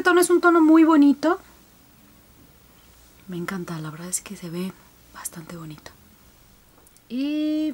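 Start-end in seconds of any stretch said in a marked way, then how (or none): 3.3-5.9 whisper. Real, not acted. Quiet remark during close-up.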